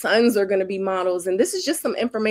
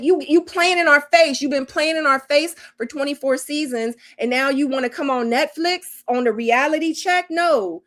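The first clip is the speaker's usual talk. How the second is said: calling her out; 5 semitones higher than usual. Real, not acted. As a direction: read her for filth. Calling out a reality star.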